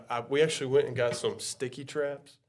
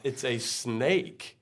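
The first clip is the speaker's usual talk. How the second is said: very slow, drawn-out words; acting out stunned, stretched speech; struggling to speak; 3 dB quieter, much slower than usual. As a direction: drag the words out as if barely able to speak. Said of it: "took a mile for me to get the words out".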